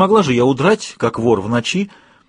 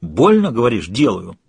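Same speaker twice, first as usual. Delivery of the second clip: snarled; 2 semitones lower than usual. Acted. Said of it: "зарычал через плечо Йен".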